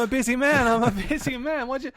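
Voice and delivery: high smug brag; high cocky boast. Pretend. Caller boasting.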